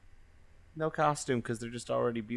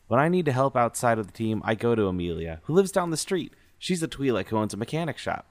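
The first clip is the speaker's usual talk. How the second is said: bright droid voice; 6 dB louder than usual. Acted. Reading character intro as robot Iggy.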